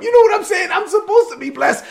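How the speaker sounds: hammed-up indignant shout; exasperated outburst. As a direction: blow up in comic frustration. Jacob complaining, acted exasperation.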